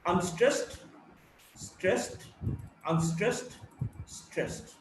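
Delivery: measured "unstressed, stressed" alternation with pauses; rhythm pattern. Shown as a demonstration. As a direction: chant out "unstressed, stressed" as a beat. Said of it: "the rhythm is".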